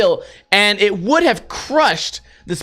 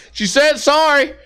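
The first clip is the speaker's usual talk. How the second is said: higher mocking whine of the excuse; mock guard voice; 7 semitones higher than usual. Retelling the guard's lame excuse, mocking whine. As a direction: parody the guard through a laugh. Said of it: "he was just like".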